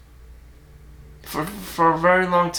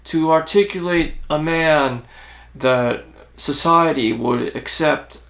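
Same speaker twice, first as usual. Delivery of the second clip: put-on deep voice. Shown as a demonstration. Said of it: "mimic someone who has a deep voice".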